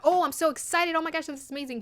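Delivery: a parody of a giddy contestant, hammed-up thrill; mock hyped excitement. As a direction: ham up the gushing excitement. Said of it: "It's too hyped for me".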